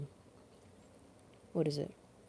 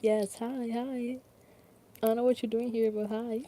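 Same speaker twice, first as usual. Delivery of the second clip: high, bright hellos to chat; excited greeting; 7 semitones higher than usual. Real, not acted. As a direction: squeal hi to each viewer. Greeting viewers on stream.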